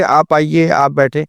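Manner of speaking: put-on gentle, respectful request to a child; polite request. Parent politely asking child to sit, gentle respectful tone. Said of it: "اگر بچے سے آپ سے بولیں گے".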